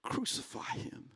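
whispered, slow and cold; the same crowd turning on Jesus, in a slow whisper; hushed cry. Retold or imitated. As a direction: breathe it out like a grim verdict. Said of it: "is now crying".

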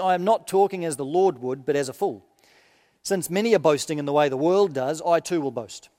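measured, solemn reading of Paul's letter; preacher reading scripture aloud. Acted. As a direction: read it out to the congregation with weight. Minister reads Paul's letter aloud.

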